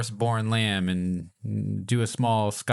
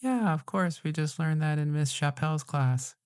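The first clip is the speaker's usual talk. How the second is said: put-on kid voice; 5 semitones higher than usual. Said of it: "they'll be like".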